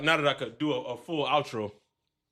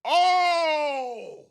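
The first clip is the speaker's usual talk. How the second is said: surprised oh; 10 semitones higher, 6 dB louder than usual. Real, not acted. Reacting to guest's pick.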